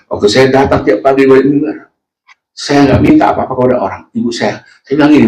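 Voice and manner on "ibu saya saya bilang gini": ordinary talk, nothing marked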